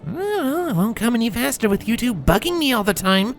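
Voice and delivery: high-pitched colt's grumble; grumbling through clenched teeth. A narrator's reading. Colt answers the bullies bugging him, clenched-teeth grumble. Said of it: "he grumbled through clenched teeth".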